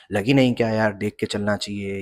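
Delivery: imitating a biker's irritated shout, half-hearted; retold yelling. Biker snapping at the narrator after a near crash, mild mock yell. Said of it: "चिल्लाते हुए बोलता है".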